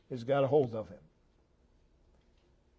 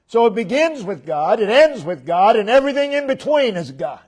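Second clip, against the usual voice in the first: 1 rising to climax; 6 semitones higher, 6 dB louder than usual. Real, not acted. Building climax.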